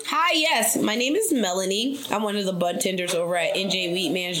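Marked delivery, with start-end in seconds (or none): 0.1-2.0 bright, loud phone hello; excited greeting. Real, not acted. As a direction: greet the winner with a burst of cheer. Cheerful phone greeting to winner.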